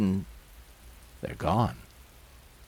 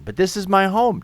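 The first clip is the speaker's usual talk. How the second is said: higher, louder, bewildered demand; alarmed protest; 9 semitones higher, 5 dB louder than usual. Acted. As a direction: demand an explanation in rising alarm. Resident protests being evicted.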